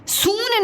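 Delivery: सून with a long drawn-out oo; wrong long vowel. Shown as a demonstration. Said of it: "नहीं बोलते हैं".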